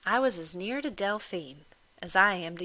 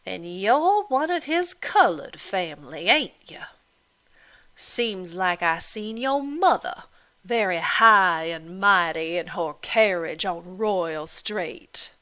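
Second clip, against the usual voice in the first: mocking Irish landlady; 7 dB louder than usual. Landlady goading Delphine about her planter father, loud and mocking. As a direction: needle her with each question.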